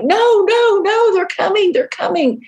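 high, frantic no no no; panicked refusal. Retold or imitated. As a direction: refuse in terror, falling away at the end. Man refusing, waving hands.

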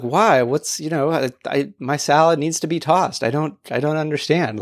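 mildly acted puzzlement; imitated innocent confusion. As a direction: play the friend who doesn't get it. Acts friend not understanding the objection.

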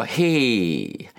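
lightly voiced wife asking sweetly; a hint of the wife, asking nicely; mock-sweet wife request; wife's request. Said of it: "She'll go".

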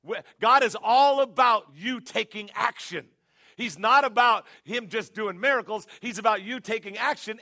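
preaching at full force; forceful preaching. Real, not acted. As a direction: hammer the point home to the congregation. Preacher drives home his point.

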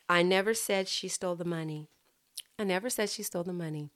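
neutral, even reading with no word stressed; neutralnie. Shown as a demonstration. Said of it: "it's just a neutral".

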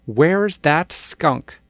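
loud and slow, eager question; eager call. Acted. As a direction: look around eagerly for the skunk. Girls eager for the skunk.

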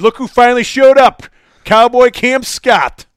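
hammed-up big welcome shout; mock announcer. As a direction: call him out like a ring announcer. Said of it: "I said".

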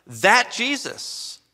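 slow, high, emphatic THAT; stress on THAT. Shown as a demonstration. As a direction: punch "that" and stretch it. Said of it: "I want to emphasize the word".

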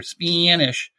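Spanish with a drawn-out Maryland vowel; Baltimore accent. Shown as a demonstration. Showing listeners a Maryland example, Baltimore accent. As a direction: stretch Spanish out, Baltimore-style. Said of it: "you heard it earlier".

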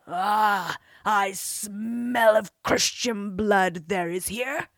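slow, loud bellowing giant; giant scream. Acted. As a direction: roar it out like a giant. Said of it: "screamed the giant".

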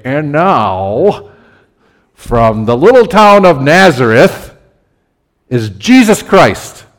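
mock arena announcer, slow and drawn out; playful announcer intro. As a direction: introduce him like a basketball announcer. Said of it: "I don't have the right voice".

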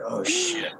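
high-pitched panicked gasp. Retold or imitated. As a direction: squeak it out in alarm. Realizes he's being videotaped.

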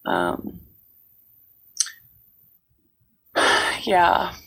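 hoarse, cold-roughened voice; froggy hoarse voice. Real, not acted. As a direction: speak through a croaky sick throat. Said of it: "I sound like I've swallowed a frog".

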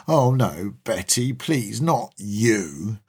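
whiny voice. Retold or imitated. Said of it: "a whiny voice says".

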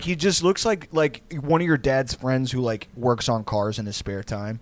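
usual speaking voice

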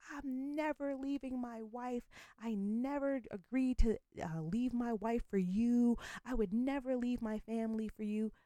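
hammed-up cheating husband insisting he won't leave; mocking the husband. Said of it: "and he's like".

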